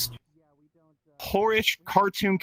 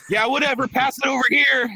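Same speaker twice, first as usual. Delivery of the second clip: higher-pitched, eager party buddy; 8 semitones higher, 3 dB louder than usual. Acted. Buddy asking for the Afrin on the dance floor, eager. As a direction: play the buddy wanting in on it.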